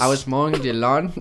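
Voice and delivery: mock Spanish-accented English; comic Spanish accent bit; put-on Spanish accent. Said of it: "keep going on with Spanish bits".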